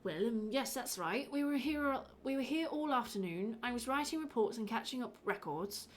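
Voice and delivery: doctor with an accidental Irish lilt; Irish accent. Acted. Village doctor giving his alibi to an inspector, Irish accent. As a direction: let the accent slip into Irish. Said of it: "I'm Irish again".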